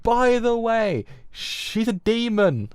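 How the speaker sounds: high, slow, eerie sing-song whisper of a secret; creepy reveal. Pretend. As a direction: drawl it out high and slow like a spooky hint. Voicing a game character's reveal.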